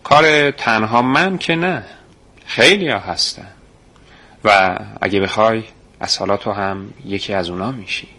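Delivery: smiling. Acted. Man smilingly invites the boy to join them, kind tone. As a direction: invite him in with a smile. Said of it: "لبخندی زد و گفت".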